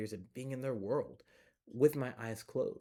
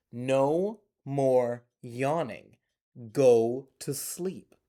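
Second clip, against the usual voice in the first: building to a louder, slower angry mom; mad mom; 6 dB louder than usual. Acted. Mad mom orders the child to go to sleep, building. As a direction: build her up into a loud, slow scolding. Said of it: "Mom is mad".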